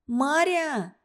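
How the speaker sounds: calling out high and worried; anxious call. A narrator's reading. Наташа calling for Маря, anxious. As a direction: look for her, alarmed. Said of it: "встревоженно позвала Наташа".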